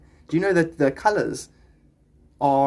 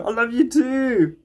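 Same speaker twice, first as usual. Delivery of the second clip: slow, tender reply; 7 semitones higher, 4 dB louder, slower than usual. Real, not acted. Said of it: "I love you, bro".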